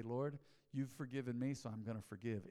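quiet humble prayer. Acted.

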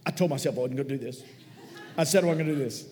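hammed-up fighting back tears; mock choked up. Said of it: "when he's choking back the tears".

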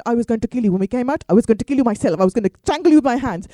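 loud, fast retold threat; grandmother's threat. Grandmother afterwards threatens her granddaughter, loud mock fury. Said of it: "my grandmother literally said".

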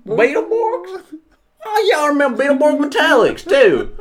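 high, loud cry of recognition; light up remembering the show; excited recognition. Real, not acted. Friend remembering an old kids' TV show, excited high cry.

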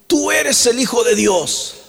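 high, drawn-out cry of recognition. Acted. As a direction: cry it out slowly like demons before Jesus. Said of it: "gritaban diciendo".

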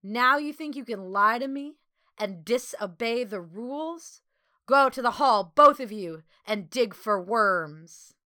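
mild bellow, laying down the law. A narrator's reading. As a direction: scold loudly, slowing on the final order. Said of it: "The older voice bellowed".

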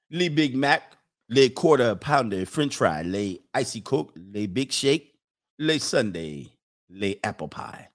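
fast-food menu in fake French; mock French. Host practising French on burger names, mock French accent. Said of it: "I'm working on my French".

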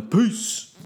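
high, shouted goodbye. Real, not acted. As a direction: shout the farewell with energy. Energetic sign-off to audience.

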